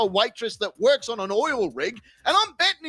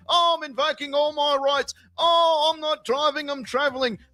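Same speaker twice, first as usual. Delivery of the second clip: mocking the pensioner; 4 semitones higher than usual. Streamer mocks the pulled-over driver, whiny higher mock voice. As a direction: sneer it out like a self-righteous old crank. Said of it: "flapping his penis flytrap".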